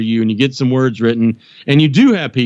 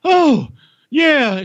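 sheepish yeah; 12 semitones higher than usual. Retold or imitated. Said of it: "So I'm like, Oh".

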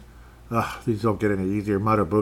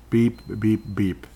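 spoken beep noise; short, evenly spaced mock beeps; imitated beeps; slower than usual. Imitated beeps between game reports.

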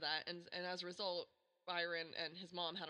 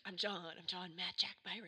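swaggering dad voice. Retold or imitated. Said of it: "you're like".

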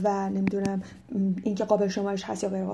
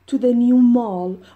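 new stressed loud and slow; slow stressed model phrase; emphasis on new; 10 dB louder, much slower than usual. Shown as a demonstration. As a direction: hit the word new. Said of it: "repeating phrase".

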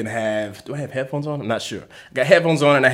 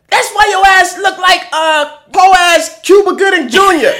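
mock shouted insult; 8 dB louder than usual. Man mimicking the solicitor's insult, laughing as he shouts. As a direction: hurl the insult, laughing through it. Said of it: "and then she says".

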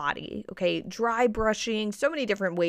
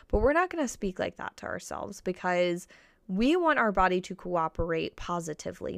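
gentle self-talk. Retold or imitated. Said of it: "And then you stop yourself".

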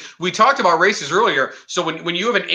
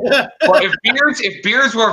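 laughing; 6 semitones higher, 4 dB louder, slower than usual. Real, not acted. Laughing while teasing.

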